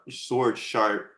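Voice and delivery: "sword sharp" drawn out slowly, each word weighted; slow right down to drive the point home; "your sword sharp" stretched slowly like a motto; slow for emphasis. Shown as a demonstration.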